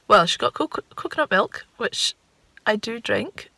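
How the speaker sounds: ordinary delivery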